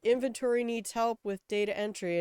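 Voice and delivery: high, bright request voice; chirpy ask for help; cheery boss voice. Retold or imitated. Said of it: "they're like".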